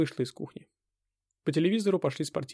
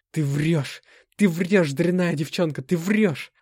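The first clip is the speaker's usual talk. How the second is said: muttering; 4 semitones higher, 6 dB louder, slower than usual. A narrator's reading. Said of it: "бормотал я".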